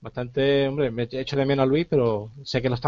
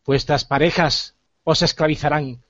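Flame, dark lord. Acted. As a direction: threaten them like a vengeful underworld god. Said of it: "Soy Flame".

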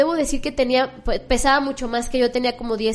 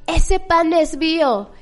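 slow, louder, mock-firm claim; a lightly hammed monk staking his claim; 4 semitones higher, 5 dB louder, much slower than usual. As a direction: draw it out like a playful challenge.

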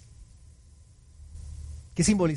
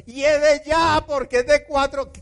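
Martha, Giovanni version; 11 semitones higher than usual. Acted. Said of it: "versión Giovanni".

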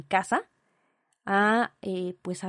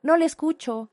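higher operator voice faking a bad line; mock operator; 5 semitones higher, 4 dB louder than usual. Imitating the operator faking a bad line, higher. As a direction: pretend you can't hear.

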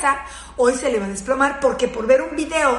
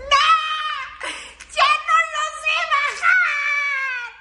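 half laughing, half terrified; 13 semitones higher, much slower than usual. Retold or imitated. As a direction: cry out that you've lost control, laughing in terror. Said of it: "entre risa, entre terror".

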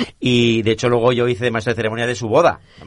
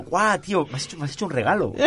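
laughing; 7 semitones higher than usual. Real, not acted. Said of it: "es como".

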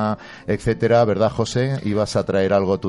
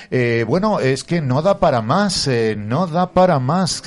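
excited; 7 semitones higher, 5 dB louder than usual. Real, not acted. Host gushing over the children.

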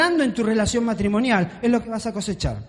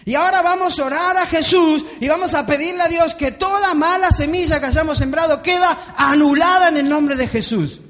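loud, higher, hammed-up preacher shouting; a mocked loud preacher; 5 semitones higher, 3 dB louder than usual. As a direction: imitate a fiery preacher rallying the crowd. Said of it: "ves a un predicador diciendo".

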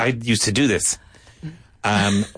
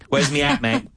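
Cockney. Shown as a demonstration. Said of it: "That's Cockney".

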